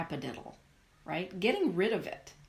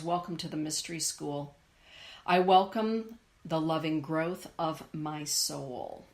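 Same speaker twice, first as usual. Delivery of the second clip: card reading voice. Shown as a demonstration. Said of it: "Fire dragon says".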